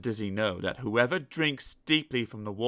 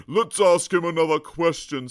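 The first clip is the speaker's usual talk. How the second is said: sniggering; 5 semitones higher, 7 dB louder than usual. Acted. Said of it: "sniggered the clever elephant".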